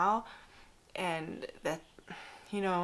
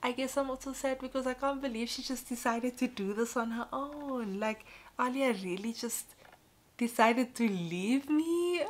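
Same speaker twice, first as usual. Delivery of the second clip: higher, mock-tearful confession; retold crying; 6 semitones higher than usual. Crying mum to friend about baby weaning, retold in a high wail. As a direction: imitate a tearful whine, building to a half-sobbed ending. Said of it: "I just started crying".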